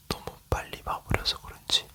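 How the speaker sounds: usual speaking voice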